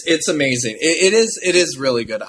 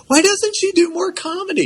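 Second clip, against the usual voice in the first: mock exclaimed question.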